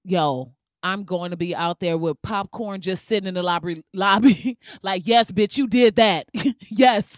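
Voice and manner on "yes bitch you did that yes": louder, laughing, hyping someone up; hype cheering. Retold or imitated. Cheering Black Panther cosplayers in the lobby, hyped. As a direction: cheer a fan's costume from the lobby.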